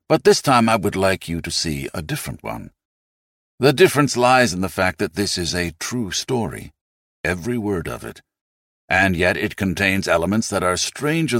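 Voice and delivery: lightly voiced British accent; a measured, light British accent for a quote; Alfred Hitchcock. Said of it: "begins to talk in an unmistakable British voice".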